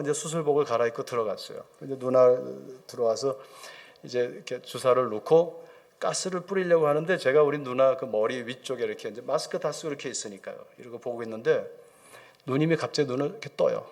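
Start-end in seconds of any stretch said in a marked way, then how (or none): none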